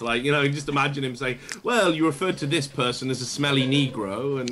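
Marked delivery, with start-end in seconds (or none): 1.6-4.4 lightly mimicked British accent. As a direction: read it out in a mock British accent. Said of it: "like, a British accent".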